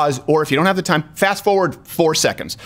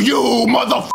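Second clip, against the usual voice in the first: mock Midwestern accent; 4 semitones higher, faster than usual. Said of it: "trying to do a Midwestern accent here".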